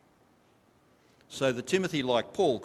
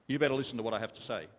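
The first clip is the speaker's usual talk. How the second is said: scolding mother; 2 semitones lower, much faster than usual. Retold or imitated. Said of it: "Sounds like your mother".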